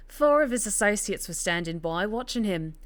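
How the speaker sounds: put-on Cockney narration; bad Cockney. Narrator describing roadworks on request, in bad Cockney. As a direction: tell it in a badly faked Cockney accent. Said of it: "To, to do the bad Cockney accent".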